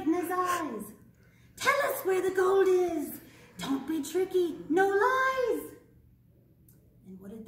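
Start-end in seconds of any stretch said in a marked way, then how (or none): 1.5-5.7 loud, higher bossy demand. Acted. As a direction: order the leprechaun to tell. Children demand leprechaun's gold.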